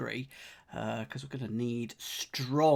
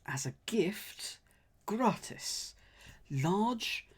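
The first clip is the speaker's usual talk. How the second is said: whispering; 5 semitones higher, 3 dB quieter, much slower than usual. Real, not acted. Whispering clue.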